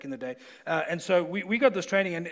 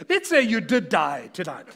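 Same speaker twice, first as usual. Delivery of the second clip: louder, laughing through it; 8 dB louder than usual. Real, not acted. Pastor recalling the follow-up question, laughing. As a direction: chuckle while you say it.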